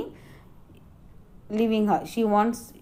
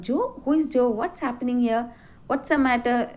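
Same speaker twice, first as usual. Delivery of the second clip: surprised question. Acted. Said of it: "She keeps asking".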